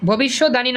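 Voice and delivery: ভবিষ্যৎবাণী said as bhobishod-dani; wrong pronunciation. Shown as a demonstration. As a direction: swap the b for d in ভবিষ্যৎবাণী. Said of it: "ভবিষ্যৎবাণী না কিন্তু".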